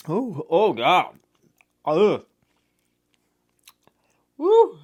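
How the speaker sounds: puckering at a sour candy; eating sour candy. Real, not acted. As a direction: sour shock, wincing through it.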